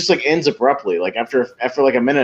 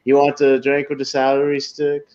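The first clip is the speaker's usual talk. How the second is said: put-on Serge's accent; 3 semitones higher than usual. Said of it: "the way that he does the accent".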